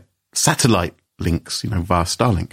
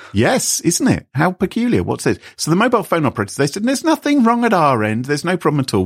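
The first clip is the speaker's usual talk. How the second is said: fake French accent; 7 semitones higher, faster than usual. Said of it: "this fake French the whole way through".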